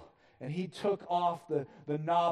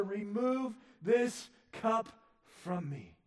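Jesus pleading; 6 semitones higher, slower than usual. Acted. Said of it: "asked the Father".

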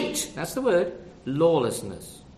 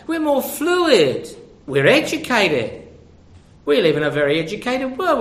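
mocking smugness; 5 semitones higher than usual. Mocking modern society's boast.

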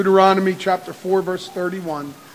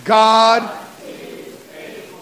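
whispered response; 4 semitones higher, 4 dB louder, much slower than usual. Shown as a demonstration. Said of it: "One more time".

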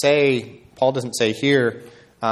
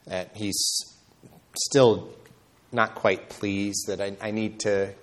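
anxious believer voiced; 4 semitones lower, 3 dB quieter than usual. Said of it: "we live the Christian life as though".

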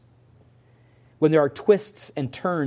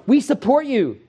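supportive friends; 5 semitones higher, 4 dB louder than usual. Retold or imitated. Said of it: "co-workers would have said to Paul".

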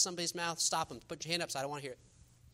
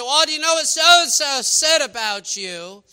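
gossiping neighbor; 10 semitones higher, 15 dB louder, slower than usual. Retold or imitated. Gossip voiced in sermon.

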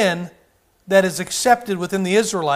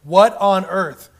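slow, drawn-out stunned question; great-grandparents shocked at today; aghast great-grandparents; 4 dB louder, much slower than usual. Retold or imitated. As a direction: imitate old folks gasping in disbelief. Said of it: "great-grandparents would look ... and go".

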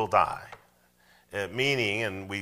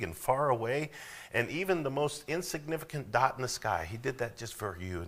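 a hint of a coaxing tempter, pitched higher; lightly voiced serpent sweet-talking Eve; persuasive serpent; 5 semitones higher than usual. Preacher voicing Satan sweet-talking Eve, lightly coaxing. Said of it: "made the case to Eve".

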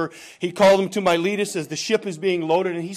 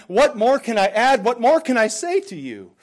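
raised, louder rhetorical plea; impassioned appeal; 7 semitones higher, 5 dB louder than usual. Acted. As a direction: press the farewell question on them. Acting Paul's final farewell to elders.

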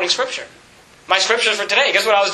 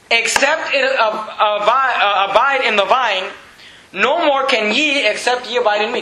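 emphatic scripture reading; 4 semitones higher than usual. Real, not acted. Reads verse aloud in preaching voice.

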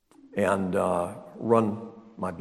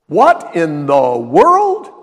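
plain; 5 semitones higher, 12 dB louder, much slower than usual. Retold or imitated. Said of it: "More like".

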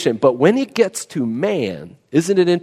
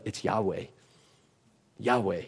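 awed whisper of the name; 7 semitones lower, 16 dB quieter than usual. Acted. Preacher lingers on the name.

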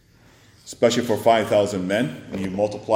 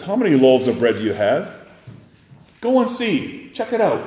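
Jesus commanding; 4 semitones higher, 5 dB louder than usual. Retold or imitated. Jesus sends disciples to check.

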